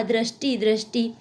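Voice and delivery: दृष्टि said as dra-sti, open vowel after r; Western Hindi re. Shown as a demonstration. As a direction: say दृष्टि without the ri sound. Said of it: "री का उच्चारण रे की भांति". (दृष्टि में रि की जगह र)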